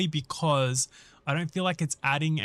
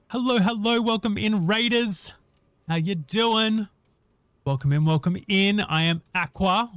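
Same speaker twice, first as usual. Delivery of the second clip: high, bright streamer welcome; cute anime streamer; 5 semitones higher, 3 dB louder than usual. Real, not acted. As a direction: greet the raiders, high and loud. Streamer greets new raiders.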